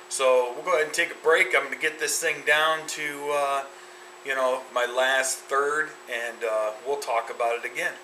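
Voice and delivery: talking around a cigar; cigar in mouth. Real, not acted. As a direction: lips closed on cigar. Seen 2: Cigar held between lips throughout speech; reference frames show it lowered.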